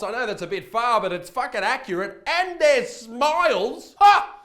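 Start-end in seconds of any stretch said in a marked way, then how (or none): 2.3-4.4 slow build to a loud scornful "Ha!"; mocking laugh. Vlogger mocks English teeth with a loud scornful laugh. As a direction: sneer then bark a loud laugh.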